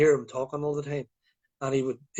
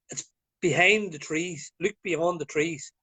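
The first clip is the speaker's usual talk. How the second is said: Mary Poppins. Retold or imitated. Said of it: "Mary Poppins would say".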